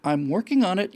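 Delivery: a touch of impatient "I'm working on it"; brushing off the question, lightly; curt reply. Retold or imitated. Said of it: "And she says something".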